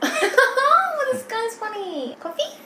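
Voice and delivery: high laughing voice, slowed. Real, not acted. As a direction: laugh through the words. Laughing at partner's joke.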